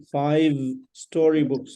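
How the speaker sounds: FIVE ending in a clear v sound; V not B. Shown as a demonstration. Teacher correcting B to V in five, careful pronunciation. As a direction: say FIVE with a v, never a b. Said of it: "It's not B, it's V".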